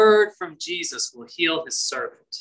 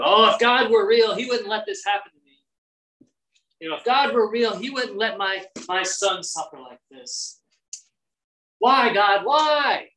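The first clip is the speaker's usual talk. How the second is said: higher, whiny complaint to God; mock grumbling; 5 semitones higher than usual. Suffering believer grumbling at God, whiny and higher. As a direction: play the bitter doubter.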